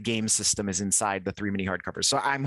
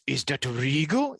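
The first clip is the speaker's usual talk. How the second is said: slow, stiff regal line read; hammed-up regal delivery; bad acting; 2 semitones higher, slower than usual. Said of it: "like this".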